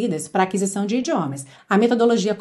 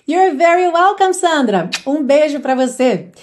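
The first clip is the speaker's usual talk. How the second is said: bright loud thanks, a notch higher; cheerful thanks; 4 semitones higher, 5 dB louder than usual. Real, not acted. Teacher thanking Sandra, loud and cheerful. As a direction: call out thanks to the viewer. Replying warmly to a fan comment.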